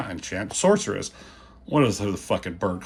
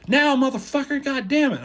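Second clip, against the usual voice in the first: high, louder mock yell at the sidekick; impatient yell; 4 dB louder than usual. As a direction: bark the order in frustration. He-Man snaps at Orko.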